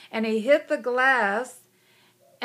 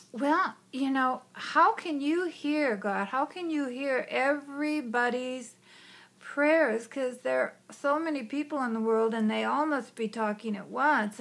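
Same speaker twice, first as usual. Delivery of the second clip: put-on curious child; 3 semitones higher than usual. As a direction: ask like an eager curious little girl. Child questions God.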